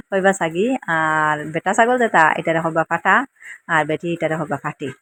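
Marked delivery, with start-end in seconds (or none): 0.1-0.7 slow laughing repeat. Shown as a demonstration. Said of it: "অনেক কইবা ছাগি".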